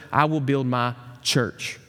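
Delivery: "church" set apart after a pause; slow line, pausing before a stressed "church". Retold or imitated. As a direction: save the weight for the last word, "church". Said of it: "emphasize a different word of that promise".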